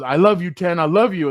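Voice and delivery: retold shout. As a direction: bellow it like a fired-up teammate. Teammate shouting love in locker room.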